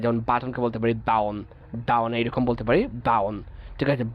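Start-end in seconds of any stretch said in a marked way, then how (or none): 1.1-1.4 ডাউন, button said as "ba'un" with no t; British-style button without t, ডাউন; British dropped T. Shown as a demonstration. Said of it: "আমরা এটাকে বাদ দিয়ে দিতে পারি". 1.9-3.4 ডাউন, button said as "ba'un" with no t; British-style button without t, ডাউন; British dropped T. Shown as a demonstration. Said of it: "আমরা এটাকে বাদ দিয়ে দিতে পারি".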